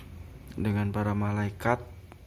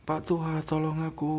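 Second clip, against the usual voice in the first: pleading; 5 semitones higher than usual. Retold or imitated. Begging the old man again.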